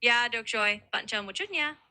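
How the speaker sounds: "Dạ" said as "yah", Southern style; reply with a Southern y on "Dạ"; Southern pronunciation. Shown as a demonstration. Tutor as cashier answers a coffee order, Southern pronunciation. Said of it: "I'd reply in that Southern style".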